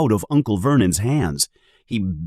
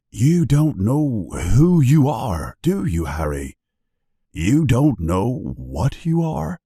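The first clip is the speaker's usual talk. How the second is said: sadly; 3 semitones higher, slower than usual. Acted. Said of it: "says Hagrid sadly".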